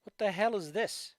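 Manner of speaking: breathy whispered disbelief; whispering. Real, not acted. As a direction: whisper it in shock. Unvoiced whisper.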